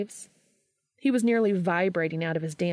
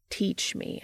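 begging; 4 dB quieter than usual. Acted. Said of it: "I beg".

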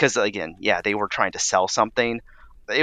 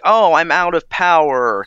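dramatic hero quote; 6 semitones higher, 6 dB louder than usual. Retold or imitated. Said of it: "it'd be like".

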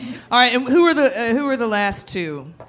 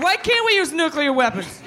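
higher-pitched, badly faked celebrity impression; Alec Baldwin; 5 semitones higher than usual. Host reveals who said it, half-hearted impression. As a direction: attempt an impression with a laugh in it. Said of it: "I can't do Alec Baldwin".

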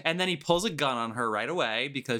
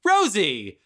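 longing call; 4 semitones higher, 5 dB louder than usual. Retold or imitated. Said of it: "stares out into the distance and goes".

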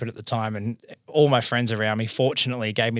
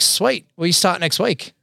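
high, bright mock boss voice; a hammed-up high pitched boss; 8 semitones higher, 5 dB louder than usual. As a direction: squeak it out like a giddy boss. Interviewers hire him, very high.

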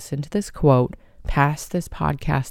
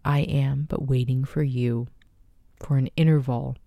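poem reading. Acted. Reads a memorial poem aloud.

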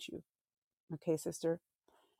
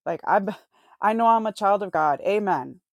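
excited self-talk; 9 dB louder than usual. Retold or imitated. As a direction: proclaim it like a thrilled princess. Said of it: "I'm like".

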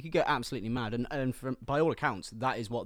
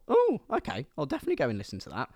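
sarcastic inner thought; 2 semitones higher, faster than usual. Retold or imitated. A music fan's sarcastic thought about a hyped record, mock-keen. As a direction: fake enthusiasm, tongue in cheek. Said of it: "which I thought".

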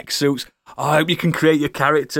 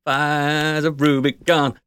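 mock dramatic announcer; much slower than usual. Hyping the game title theatrically.

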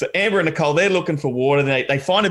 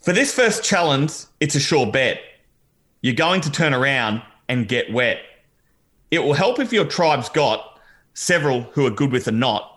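mock-grand reading. Shown as a demonstration. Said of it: "I'll read it out".

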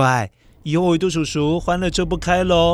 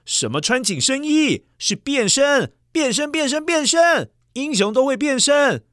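excited insistence; 6 semitones higher than usual. Acted. Insists it's a transformation.

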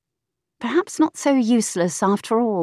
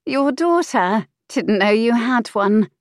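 put-on higher, slower, pert young woman; saucy mistress voice, high; 4 semitones higher than usual. Mistress snapping at the earl, pert high voice. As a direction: tease him back, pitched up and slow.

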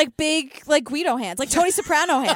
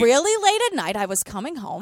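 imitating Ellen's accent; 2 semitones lower than usual. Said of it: "Can you do her accent?".

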